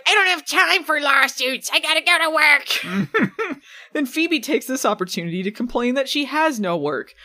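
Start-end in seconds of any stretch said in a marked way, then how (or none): 0.0-3.6 slow, exasperated complaint; fed up and busy. Retold or imitated. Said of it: "Piper's like".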